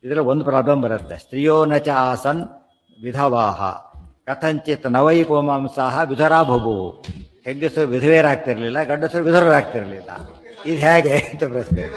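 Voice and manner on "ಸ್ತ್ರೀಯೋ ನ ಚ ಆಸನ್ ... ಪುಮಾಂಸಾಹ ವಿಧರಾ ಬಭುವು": slow, measured Sanskrit recitation; verse recitation. Real, not acted. Teacher quotes scripture to listeners, slow recitation. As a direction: recite the verse with drawn-out syllables.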